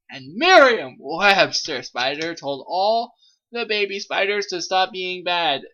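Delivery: ordinary talk, nothing marked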